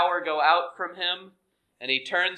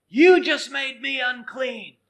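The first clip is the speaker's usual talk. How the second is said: higher, louder pretend rebuke; mock rebuke; 7 semitones higher, 5 dB louder than usual. Jesus hypothetically scolding the woman, mock rebuke. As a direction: voice the rejection he might have given.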